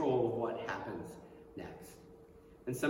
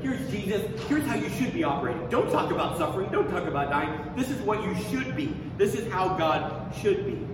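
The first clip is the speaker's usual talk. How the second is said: higher, bossy, telling Jesus how to operate; Peter lecturing Jesus; 4 semitones higher, 3 dB louder than usual. Retold or imitated. Peter rebukes Jesus, a higher and bossy lecture. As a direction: lay down the rules, pushy and raised. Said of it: "He's like".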